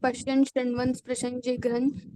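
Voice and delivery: PASHYAN, SHRUNVAN said softly with short "an" endings; original pronunciation. Shown as a demonstration. Teacher gives student the correct original reading, softly with "an" endings. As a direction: say pashyan, sprushan lightly, no "ain" glide. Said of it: "the mool pronunciation is only correct".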